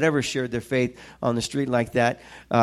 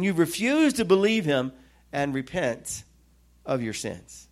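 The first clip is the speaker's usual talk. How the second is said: scripture reading; 2 semitones higher than usual. Acted. Reads scripture aloud to congregation.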